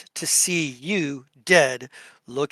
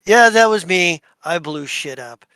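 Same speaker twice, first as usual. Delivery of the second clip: loud proud admission; 7 dB louder than usual. Acted. Fash to the Duke, loud brag. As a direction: brag it at full volume. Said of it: "he goes".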